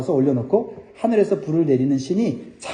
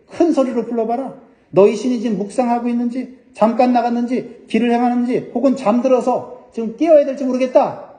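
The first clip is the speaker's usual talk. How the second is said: higher-pitched taunting quote; mocking; 6 semitones higher than usual. Elijah taunting the prophets of Baal over their silent god, mocking. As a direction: goad them in a raised, mocking voice. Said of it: "엘리야가 그들의 헛된 종교 행위를 보고 조롱을 해요".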